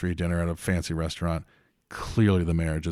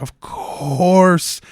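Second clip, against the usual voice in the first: amused; 9 semitones higher, 8 dB louder than usual. Retold or imitated. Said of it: "I'm like".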